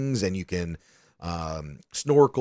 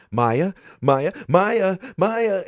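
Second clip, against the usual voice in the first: calling out a name, rising higher and louder; escalating search call; imitated panicked calling; 11 semitones higher, 5 dB louder, much slower than usual. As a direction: imitate parents calling for a lost child. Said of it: "they were just screaming".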